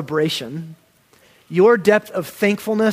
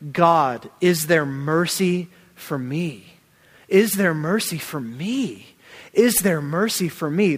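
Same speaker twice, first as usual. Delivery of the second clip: pleading cry; slower than usual. Retold or imitated. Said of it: "She's saying".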